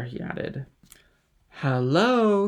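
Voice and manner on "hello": put-on higher, louder drunken hail; calling out. A narrator's reading. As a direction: shout it across to Dantès. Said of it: "half rising with his fist on the table".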